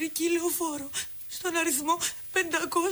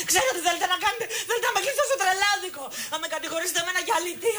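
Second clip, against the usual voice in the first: higher, laughing accusations turning to a shout; hysterical laughter; 5 semitones higher, faster than usual. Acted. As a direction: manic laugh spilling into yelling.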